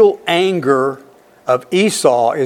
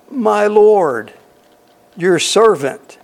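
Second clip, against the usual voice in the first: syrupy, higher pleading tone; butter him up with my lord; fawning flattery; 6 semitones higher, 3 dB louder, slower than usual. Shown as a demonstration. Preacher acting out Jacob flattering his brother, fawning. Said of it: "now I'm gonna say it this way for emphasis".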